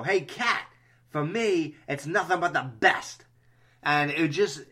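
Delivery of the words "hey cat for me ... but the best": a lighter retelling of the line, slightly raised; movie quote. Retold or imitated. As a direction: say the line again, more casually. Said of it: "I would just go".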